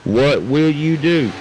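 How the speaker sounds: slow, loud promo repeat; slow dramatic tease. Acted. Caster teasing viewers about the prize, slow dramatic read. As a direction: stretch it out to build suspense.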